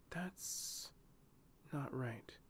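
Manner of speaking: hushed, breathy alarm; whispering. A narrator's reading. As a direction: whisper it under your breath. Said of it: "she whispered".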